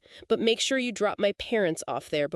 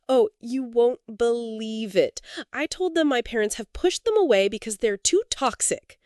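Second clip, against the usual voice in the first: mocking sister-in-law; 3 semitones higher than usual.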